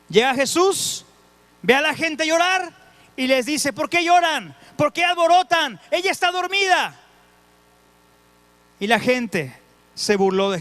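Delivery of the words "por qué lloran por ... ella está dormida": Jesus rebuking. Retold or imitated. Jesus retold rebuking mourners.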